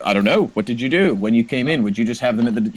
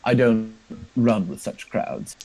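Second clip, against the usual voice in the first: slight sneer; slower than usual. Acted. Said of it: "he kind of sneers slightly".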